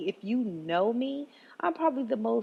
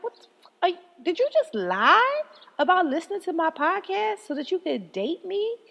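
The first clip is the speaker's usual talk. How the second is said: high, stammering outraged disbelief; incredulous; 9 semitones higher, 4 dB louder than usual. Retold or imitated. Calling out lying date.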